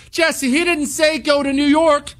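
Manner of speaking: high, mock-whiny objecting listener. Host mimics a skeptical listener objecting, high mock voice. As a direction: parrot the doubting fan back at them. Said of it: "and say".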